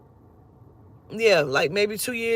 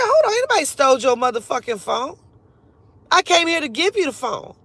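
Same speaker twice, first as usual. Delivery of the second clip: indignant retort; 3 semitones higher, 3 dB louder than usual. Retold or imitated. Retold argument at car window.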